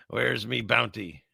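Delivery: slow, half-hearted pirate voice; mock pirate. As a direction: play at being a pirate, lightly. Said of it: "supposed to talk like a pirate".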